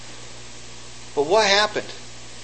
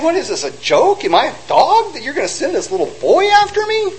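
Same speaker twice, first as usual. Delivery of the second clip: taunting giant; 8 semitones higher than usual. Acted.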